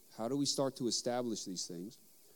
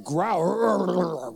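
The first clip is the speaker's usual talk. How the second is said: "Growl" called out high and loud; urging his son to roar; loud playful command; 6 semitones higher, 8 dB louder than usual. Retold or imitated. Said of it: "It's like".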